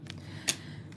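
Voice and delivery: a long unvoiced sigh of exhaustion; breathless sigh. Real, not acted. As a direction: let the air out, spent. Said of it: "I'm, like, out of breath".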